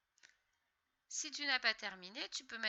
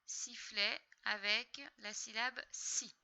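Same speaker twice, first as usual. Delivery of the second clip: whisper. Shown as a demonstration. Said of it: "teacher whispers explanation".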